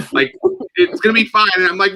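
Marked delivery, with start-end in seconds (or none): 0.8-1.5 imitating sister. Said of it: "My sister's like".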